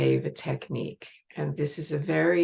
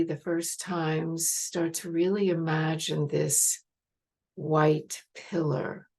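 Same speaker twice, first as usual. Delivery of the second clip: guided meditation. Real, not acted. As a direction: lead them gently inward, with long pauses.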